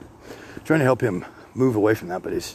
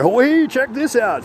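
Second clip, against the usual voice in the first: devil tempting; 7 dB louder, slower than usual. Retold or imitated.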